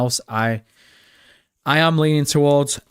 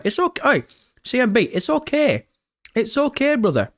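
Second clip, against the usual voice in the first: a hint of mock sympathy, pitched higher; mock consoling; 9 semitones higher than usual. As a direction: pretend to comfort him, teasing. Mock consoling a chat viewer.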